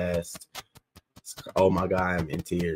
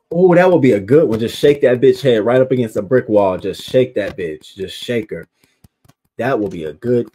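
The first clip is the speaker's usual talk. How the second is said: gleeful; 2 semitones higher, 10 dB louder than usual. Real, not acted. Reacting to a chat revenge idea, loud and gleeful. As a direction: savour the punishment idea.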